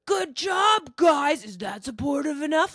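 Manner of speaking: sarcastic fake-encouraging yell; high sneering cheer, mocking support; mocking fake praise. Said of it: "but then he was like".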